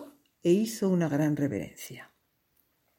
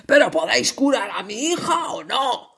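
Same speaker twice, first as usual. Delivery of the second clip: indignant; 4 semitones higher, 3 dB louder than usual. Acted. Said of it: "le dijo el rey muy indignado".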